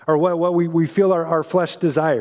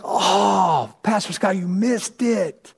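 higher, let-down voice, gently scolding; disappointed Holy Spirit; 4 semitones higher than usual. Retold or imitated. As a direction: play the Spirit sighing over a sleepy pastor. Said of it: "sometimes I think he's like".

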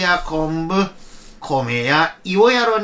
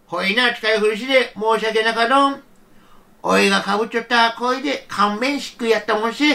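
put-on lightly raised, gentle old man voice; an old man fussing kindly over snowy statues; a hint of a tender grandfather. Grandfather gives away his hat.

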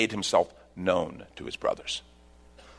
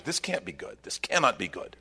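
much softer, dropping to a near murmur; worried; 7 dB quieter than usual. Acted. The brothers fearing the governor, softly dreading. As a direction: mutter it under your breath in dread. Brothers' frightened inner thought.

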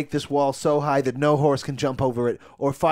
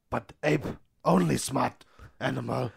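ape talk; 2 semitones lower, 5 dB quieter than usual. Acted. Improvised ape Caesar voice.

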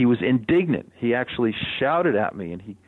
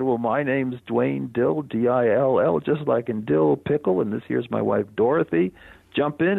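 folksy farmer; 3 semitones higher than usual. Retold or imitated. Farmer introduces himself and wife.

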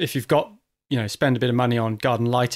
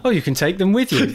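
mock salesy pitch, higher and laughing; gushing real estate agent; 5 semitones higher than usual. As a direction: parrot the agent's sales line teasingly. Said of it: "said like a real estate agent".

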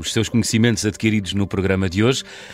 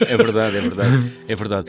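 laughing. Real, not acted. Agreeing while laughing.

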